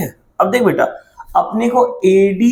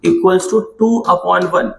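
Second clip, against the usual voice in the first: slow dictation; much slower than usual. Shown as a demonstration. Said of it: "सारे बच्चे यहाँ देखो".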